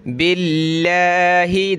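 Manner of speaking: बिल्लाहि slow with a light, thin ल; thin Allah. Shown as a demonstration. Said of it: "बारीक यानी पतला करके". (बिल्लाहि बारीक पढ़ें)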